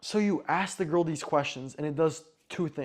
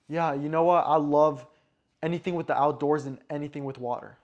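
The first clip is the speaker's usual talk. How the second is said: quick answer; 5 dB louder than usual. Shown as a demonstration. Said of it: "You notice how quick that is".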